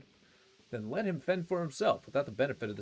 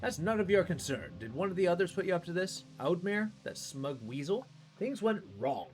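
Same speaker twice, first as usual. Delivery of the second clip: defensive anger; 5 semitones higher than usual. Acted. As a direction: bristle and deflect. NPC defensive outburst.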